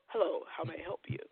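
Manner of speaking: low, soft polished "Hello, how may I help you"; work phone voice. Retold or imitated. Husband answering work call, soft formal phone voice. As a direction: put on a smooth professional phone voice. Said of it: "in his work tone".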